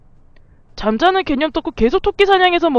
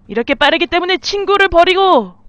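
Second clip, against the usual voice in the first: ordinary delivery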